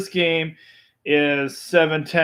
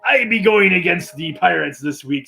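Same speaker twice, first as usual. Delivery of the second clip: pirate voice. Pretend. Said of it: "I'm still talking like a pirate".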